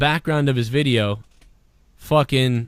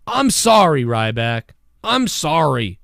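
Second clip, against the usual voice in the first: apologetic high voice; 5 semitones higher than usual. Retold or imitated. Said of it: "to tell him".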